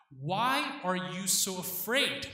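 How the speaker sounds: slow, searching Why are you so afraid?, each word weighed; probing question. Retold or imitated. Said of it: "That's what he's asking".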